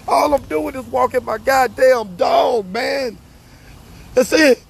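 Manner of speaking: fed up and protesting; real exasperated anger. Real, not acted. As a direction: vent in real exasperation, voice riding high. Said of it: "I'm so mad".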